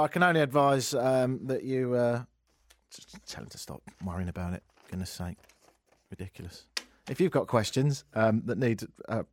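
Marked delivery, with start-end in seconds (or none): 2.9-6.6 soft, exasperated under the breath; dismissive mutter. Real, not acted. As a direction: grumble it off to the side.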